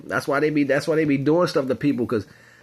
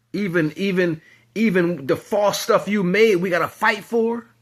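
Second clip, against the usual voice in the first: voice of the creations; 8 semitones higher than usual. Acted. Creations complaining to their makers, high aggrieved whine.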